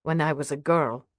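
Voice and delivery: put-on mother with a light Russian accent. Mother recalls baking as a girl, lightly Russian-accented. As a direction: reminisce with a touch of Russian accent. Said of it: "Is that a Russian accent".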